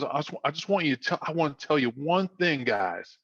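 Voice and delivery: lightly imitated Southern coach; attempted Southern accent. Coach setting his players straight, lightly Southern accent. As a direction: make a point with a hint of North Carolina. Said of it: "tried to do my Southern accent".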